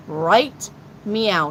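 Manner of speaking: "Right meow" with now said as a meow, falling at the end; teasing cat-pun "Right meow"; playful right meow. Pretend. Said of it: "I said, right meow".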